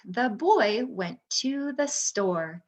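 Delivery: smooth, flowing, like normal talk; fluent natural reading. Shown as a demonstration. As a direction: read it smoothly as you would say it. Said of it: "you're gonna read how you talk".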